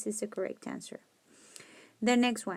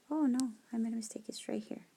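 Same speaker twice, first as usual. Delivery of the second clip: whispered aside; 6 dB quieter, much faster than usual. Real, not acted. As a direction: breathe it quietly to yourself. Teacher whispering to herself.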